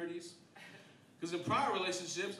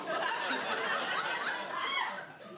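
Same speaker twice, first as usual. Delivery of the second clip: high squealing laugh; 3 dB louder than usual. Retold or imitated. After Spider-Man scream.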